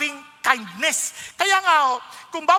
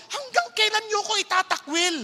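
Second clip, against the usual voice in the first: higher, aggrieved question; a hurt, fed-up God asking; mild exasperated divine voice; 6 semitones higher than usual. Retold or imitated. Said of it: "sabi ng Lord".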